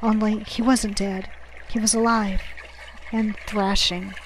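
usual speaking voice

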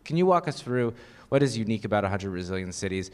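ordinary talk, nothing marked

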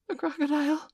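high-pitched gasp of alarm; frightened gasp. A narrator's reading. Hook realises the crocodile is near, frightened gasp. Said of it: "he gasped and bounded away".

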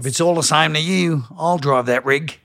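Crocodile Dundee style Australian; movie line in a put-on Australian accent. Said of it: "in an Australian accent".

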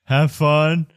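put-on slurred, sleepy drunk guild clerk; town drunk. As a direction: drag the words like a tipsy clerk. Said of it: "He's kinda slurring his words".

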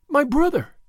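high, loud heartbroken cry; anguished sob. A narrator's reading. Marguerite remembering her brother, anguished cry. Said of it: "with a heartbroken sob of anguish".

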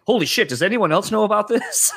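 high laughing disbelief; amazed. Retold or imitated. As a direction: gasp it out laughing in wonder. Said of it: "you're just kinda like".

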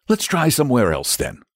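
patient. A narrator's reading. Saint George humours the ticklish dragon, patiently. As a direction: humour them with another try. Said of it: "said Saint George patiently".

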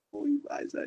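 high, excited "uy, esa"; delighted approval. Retold or imitated. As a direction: react thrilled at the perfect take. Delighted reaction to the take.

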